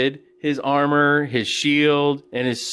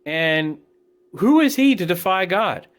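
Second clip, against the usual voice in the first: fired up; 5 semitones higher than usual. Retold or imitated. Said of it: "David's pretty upset. He's fired up for the Lord".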